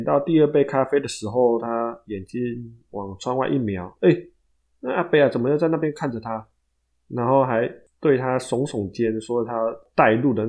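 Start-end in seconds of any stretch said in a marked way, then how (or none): 4.0-6.4 surprised exclamation. Retold or imitated. Coffee king spots Abei again.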